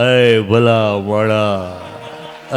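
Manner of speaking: choked-up doctor. Retold or imitated. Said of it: "doctor સાહેબ ગળગળા થઈ ગયા".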